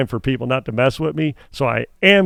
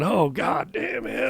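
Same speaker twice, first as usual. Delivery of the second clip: imitating Evel Knievel; 5 semitones higher, 8 dB quieter, slower than usual. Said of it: "Evel Knievel would probably be going".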